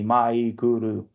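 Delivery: "Maikuru" with no syllable emphasized; even, unstressed syllables. Shown as a demonstration. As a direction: say "Maikuru" low and level, Japanese-style. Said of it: "There is no emphasis on any one syllable".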